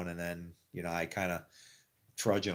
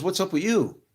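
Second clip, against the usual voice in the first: much higher and louder voice of the makeup lady; concerned question; 10 semitones higher, 7 dB louder than usual. Retold or imitated. Makeup lady holding up the mirror, high and loud. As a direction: demand an explanation, high.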